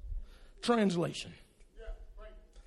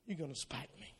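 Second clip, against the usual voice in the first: much softer, low and limp; puny; 7 semitones lower, 18 dB quieter than usual. Retold or imitated. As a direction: make the threat sound harmless. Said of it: "it sounds so puny".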